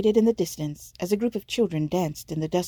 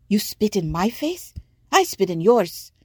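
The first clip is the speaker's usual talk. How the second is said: put-on enraged girl; 4 semitones higher, 4 dB louder than usual. Olawu enraged at merchant.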